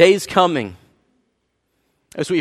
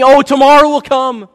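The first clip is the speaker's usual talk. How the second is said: complacent thinking; 7 semitones higher, 7 dB louder than usual. Retold or imitated. Pastor mocking people who assume tomorrow comes, mock-complacent. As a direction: mimic the lazy assumption that there's always tomorrow.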